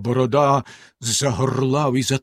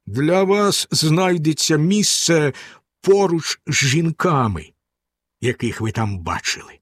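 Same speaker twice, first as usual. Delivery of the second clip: menacing husband. Acted. Bluebeard threatens his wife.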